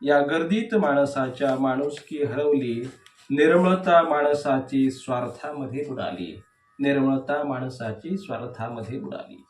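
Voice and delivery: measured verse reading with falling line endings; declaimed poetry, leaning on each opening word; poem recitation. Acted. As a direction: recite the verse line by line, pausing between phrases. Recites second poem aloud.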